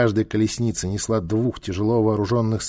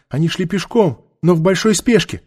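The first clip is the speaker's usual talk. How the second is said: high crone voice; old woman; 7 semitones higher, 4 dB louder than usual. Acted. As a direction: answer in a raised whine. Old woman answers interrogator.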